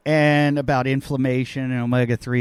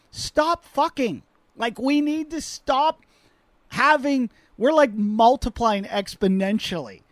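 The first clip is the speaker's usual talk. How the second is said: much higher, slow exasperated plea; 8 semitones higher, slower than usual. Real, not acted. Comedian begging the world to stop breeding, high and slow. Pleading with the world, comic rant.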